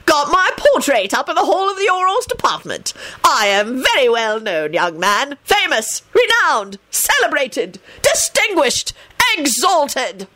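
high, grandiose self-praise; delighted boasting. A narrator's reading. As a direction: list your glories, each word its own flourish. Vain man boasts delightedly.

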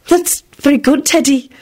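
high, puzzled praise. A narrator's reading. Beatrice answers Teddy's boasting, puzzled. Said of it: "replied with a puzzled expression".

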